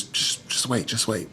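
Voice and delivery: a soft whisper, barely voiced; whispered reassurance. Wife whispering to her husband at the service to just wait. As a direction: hush him gently, almost no voice. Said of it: "And she says".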